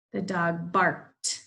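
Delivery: barked said slowly, ending on a crisp t; teacher models a t ending; slow model phrase. Shown as a demonstration. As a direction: drag out the dog barked, snapping the final t. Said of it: "There's that t sound".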